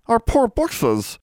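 slow, high-pitched lament; wailing elf. A narrator's reading. Elf grieving over mistreated books, wailing. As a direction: mourn it in an elf's long wail. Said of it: "wailed Bran".

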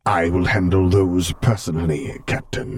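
cold, measured imperial authority; Darth Vader voice. Acted.

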